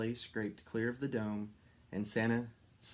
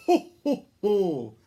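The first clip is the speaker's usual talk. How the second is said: much higher, loud ho ho ho; Santa laugh; 10 semitones higher, 14 dB louder, slower than usual. A narrator's reading. Santa laughing as they fly home, booming. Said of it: "laughed Santa".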